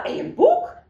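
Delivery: light gasp at the book; surprised wife. Acted. (veel hoger, verrast)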